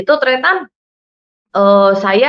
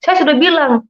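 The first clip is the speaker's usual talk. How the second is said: higher-pitched, insistent reprimand; retold scolding; 5 semitones higher than usual. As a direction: repeat the telling-off, acting out the scolder. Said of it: "saya dimarahin".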